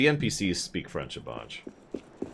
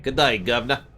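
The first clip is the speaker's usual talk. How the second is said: put-on French accent; 5 semitones higher, 6 dB louder than usual. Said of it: "another very French saying".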